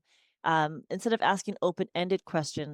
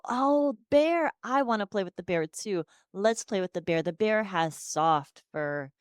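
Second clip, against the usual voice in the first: put-on bright, excited talk to a toddler about the bear; cheerful play talk; 3 semitones higher than usual. Shown as a demonstration. Therapist to nonverbal child, animated play voice. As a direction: model words for a nonverbal child, upbeat. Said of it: "then I go".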